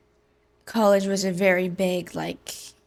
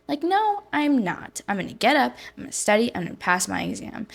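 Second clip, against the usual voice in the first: higher and louder, fierce refusal; defiant comeback; 5 semitones higher, 3 dB louder than usual. Retold or imitated. Telling friends how she fought back, defiant and louder. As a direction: push back with sudden resolve.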